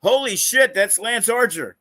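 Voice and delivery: yell. Retold or imitated. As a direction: shout it out in disbelief. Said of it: "I heard one person yell".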